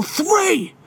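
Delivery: high, drawn-out number, no extra volume; retold warning count. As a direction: imitate a teacher's countdown threat. Teacher counts down as a threat.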